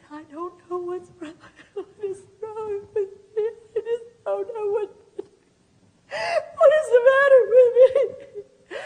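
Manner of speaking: high, weepy, crying voice rising to a wail; a teary, hammed-up wail of confusion; mock sad crying. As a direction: act out a patient breaking down in tears. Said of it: "some people get sad".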